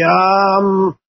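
drawn-out, low hesitation, imitating a stumped kid; nervous student. Student put on the spot about heritage, mock nervous. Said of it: "they get real nervous".

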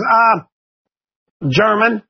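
hesitant student answer, stated without a rise; lightly voiced kid offering an unsure reply; nervous student. Joe answers the teacher about his grandfather, mildly nervous. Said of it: "they get real nervous".

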